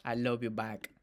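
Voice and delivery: imitating a put-on Latino accent; lightly mocking Latino accent. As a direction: mimic her Latino-accented "I love you back". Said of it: "revela un nuevo acento latino".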